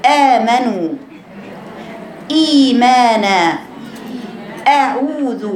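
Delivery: آمنوا and إيمانا with the hamza from deep in the throat; slow, drawn-out إيمانا with a deep throat hamza. Shown as a demonstration. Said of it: "هاتيها عميق". (همزة من أقصى الحلق)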